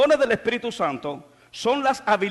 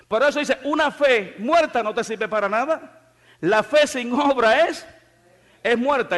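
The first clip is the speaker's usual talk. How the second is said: higher, louder preaching at full force; fiery preaching; 4 semitones higher, 4 dB louder than usual. Acted. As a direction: drive the point home to the church. Preaching to the congregation.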